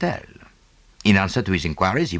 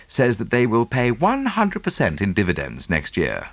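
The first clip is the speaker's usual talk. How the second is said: a hint of a breezy English gentleman, teasing; gently mock his friend about money; lightly voiced Englishman Hastings.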